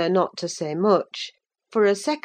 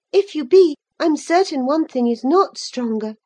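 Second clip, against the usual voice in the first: put-on higher girl's voice, demanding an answer; young Cathy, pressing; 9 semitones higher, 6 dB louder than usual. A narrator's reading. Cathy challenging her sick cousin Linton, higher and insistent. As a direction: push him to answer, a bit hurt.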